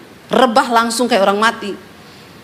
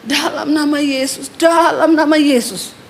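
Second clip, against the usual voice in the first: drawn-out imitation of a struggling cry; mock labored cry. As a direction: imitate a possessed man forcing it out, no real volume. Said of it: "suaminya mulai teriak". (tiruan teriakan tertahan, diseret)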